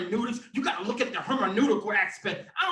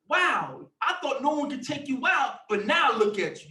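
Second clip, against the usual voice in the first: mock taunt; 2 semitones higher than usual. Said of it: "That's what the Most High is saying now".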